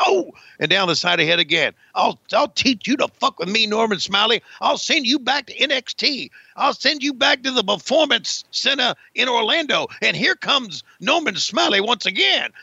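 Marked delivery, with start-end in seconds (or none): 2.0-12.5 higher-pitched mock Southern gentleman; Southern gentleman accent. Commentator voicing a threat to Norman Smiley, Southern gentleman accent. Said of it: "I'm talking like a Southern gentleman".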